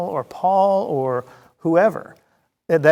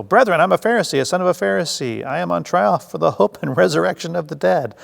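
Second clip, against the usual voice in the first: crying out; 4 semitones higher than usual. Acted. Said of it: "Paul began crying out to the council".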